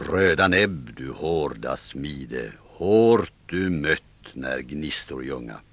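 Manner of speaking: långsam, högtidlig versläsning; läs versen som en skald; reciterad vers. Acted. Reciterar en vers under striden. (långsam skaldevers)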